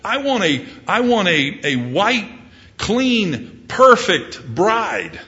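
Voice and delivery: high, lifted, stretched out at the end; God longing for his bride, slowing on perfect bride. Acted. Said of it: "And God says that".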